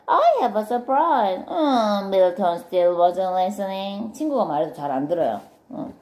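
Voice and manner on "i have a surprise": high, firmer and more forceful; insistent announcement. Acted. Friend trying Milton once more, insistent. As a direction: push the news across to someone not listening. Repeated to get Milton's attention.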